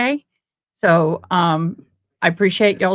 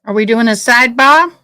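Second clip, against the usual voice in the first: excited question; 4 semitones higher, 7 dB louder than usual. Real, not acted. Livestream pauses for a sidebar.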